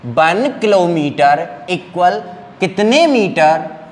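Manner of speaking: slow, drawn-out rote drill question; old teacher drilling. Retold or imitated. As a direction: lightly mimic a teacher making kids cram. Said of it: "teachers इसको बेटा रटवाते थे".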